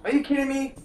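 high, loud exasperated outburst; disbelieving frustrated yell. Real, not acted. Frustrated at blocked path.

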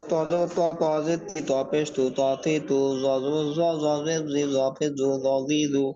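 rhythmic, even-toned letter-by-letter spelling drill; recitation drill. Shown as a demonstration. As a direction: chant out the letters evenly for learners to follow. Combined vowel spelling drill.

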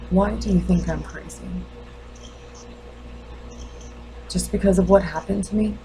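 restrained questioning, long pauses between lines; lightly played grieving mother, guarded and probing; wounded mother challenging the doctor. Mother asks doctor if she looks crazy, quietly challenging. Acts monologue of bereaved mother.

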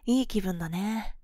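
normal talking voice

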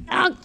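short grunted ugh; imitated ugh sound. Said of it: "it just made the ... sound".

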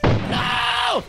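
yelling across the room. Real, not acted.

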